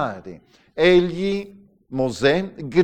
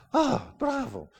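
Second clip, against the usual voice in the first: sarcastic praise; 11 semitones higher, 5 dB quieter than usual. Acted. Preacher mocking someone who repeated a prayer many times, sarcastic. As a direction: feign being impressed, in a high voice.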